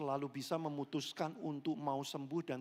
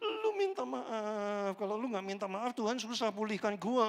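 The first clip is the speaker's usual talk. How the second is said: mock whiny plea; 4 semitones higher, 4 dB louder than usual. Wounded demanding apology.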